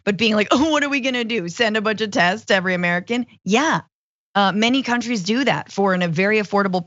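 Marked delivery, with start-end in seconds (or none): 0.5-3.3 higher-pitched mock incredulity, then hurried; sarcastic mock question. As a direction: imitate a sarcastic, dismissive reply. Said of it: "she was in sarcasm mode".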